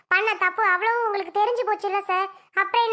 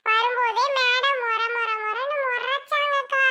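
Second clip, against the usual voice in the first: thankful and a little nervous, voice raised; grateful woman; 3 semitones higher than usual. Acted. Grateful offender woman speaks. (நன்றியுடன் சற்று உயர்ந்த குரலில் பேசும் பெண்)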